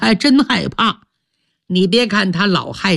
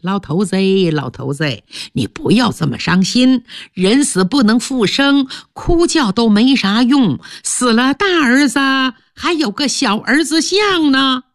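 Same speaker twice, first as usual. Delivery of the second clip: coaxing comfort; 3 semitones higher than usual. Acted. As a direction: soothe the grieving old man. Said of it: "任女在一旁直劝".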